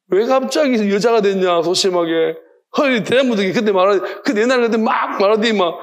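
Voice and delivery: lightly voiced God taunting Job; God rebuking Job. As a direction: chide him like a stern father. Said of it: "주님께 폭풍 가운데".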